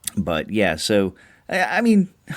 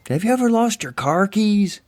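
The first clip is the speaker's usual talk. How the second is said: put-on a lightly done, cheap Scottish accent, pitched higher; 14 semitones higher than usual. A podcaster jokes about a movie, in a cheap Scottish accent. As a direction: toss off a throwaway Scottish accent. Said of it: "I didn't do that in a f-, cheap Scottish accent".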